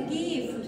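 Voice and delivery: গিফট with the "t" released after the f; final t sounded. Shown as a demonstration. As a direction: finish গিফট on an audible t. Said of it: "টটা উচ্চারণ হবে".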